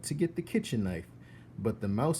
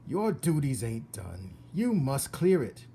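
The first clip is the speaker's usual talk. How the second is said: bossy cook; 4 semitones higher, 3 dB louder than usual. Acted. Cook orders Mig.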